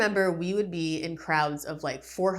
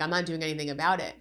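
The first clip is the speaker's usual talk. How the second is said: brash attitude; much faster than usual. Retold or imitated. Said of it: "brash attitude right back in my face".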